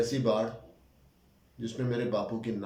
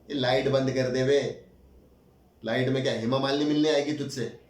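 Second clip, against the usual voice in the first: louder, needling order to a roommate; mock him as you order the light off; sneering roommate; 5 dB louder than usual. Roommate to narrator about switching off the light, sneering.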